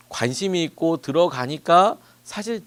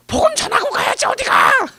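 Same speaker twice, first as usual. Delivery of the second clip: much higher, louder yell at someone leaving; loud high imitated yell; shouting after him; 9 dB louder than usual. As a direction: call out after the young man as he walks away. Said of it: "뒤에다 대고 소리를 막 지르시더라는 거예요".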